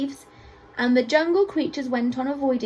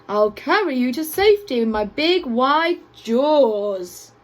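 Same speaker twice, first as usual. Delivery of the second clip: alligator offering help; 4 dB louder than usual. A narrator's reading. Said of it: "said the alligator".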